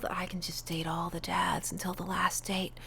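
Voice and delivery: whispering. Real, not acted. Player confiding to viewers about dating all the dads, whispered. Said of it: "I don't know why I'm whispering".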